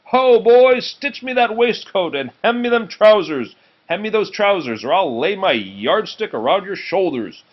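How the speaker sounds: high, loud bossy shout at an apprentice; sleep-talking shout. Acted. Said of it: "talking in his sleep".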